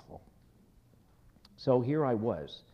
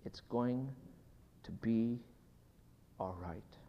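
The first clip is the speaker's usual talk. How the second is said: soft, fading to a breathy whisper; hushed whisper at bedside; 4 dB quieter than usual. Retold or imitated. Son whispering comfort to his dying father, hushed. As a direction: hush it as if at a dying man's side. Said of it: "I whispered".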